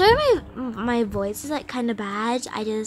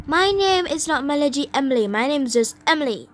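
quick, raised-pitch protest; indignant correction; 4 semitones higher, 4 dB louder, faster than usual. Pretend. New girl correcting her buddy's nickname, indignant. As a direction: play at being fed up, rattled off quickly.

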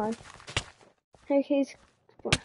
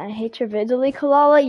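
a light mock British accent, "Kalala" louder; 5 dB louder than usual. To chat, reading a viewer comment in a mild British accent. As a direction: read the fan comment in a half-hearted British accent. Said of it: "get the British accent".

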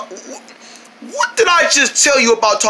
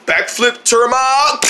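drawn-out slow call; 4 semitones higher, much slower than usual. Shown as a demonstration. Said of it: "Let me try and do that".

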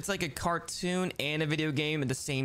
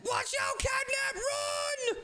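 very high shouted warning; urgent warning shout; much slower than usual. Acted. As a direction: yell at him to flee now. Warning Catnap of Poppy.

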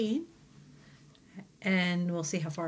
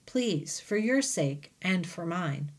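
gentle; slower than usual. Acted. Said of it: "Bob says gently".

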